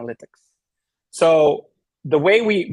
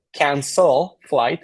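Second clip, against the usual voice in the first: slow spoken cancel flight; much slower than usual. Shown as a demonstration. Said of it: "even the way I said it right now".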